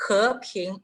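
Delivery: "He, ping" both syllables rising; second tones. Shown as a demonstration. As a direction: lift each syllable of "He, ping". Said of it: "en el segundo tono".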